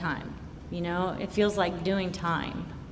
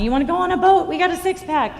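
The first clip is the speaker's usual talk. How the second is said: imitating friends; 10 semitones higher, 6 dB louder, faster than usual. Imitating friends' boat invite.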